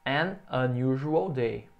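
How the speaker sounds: "an unusual day" said very slowly, "an" stressed; teacher modelling English; slow model phrase. Shown as a demonstration. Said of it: "se você vai dizer".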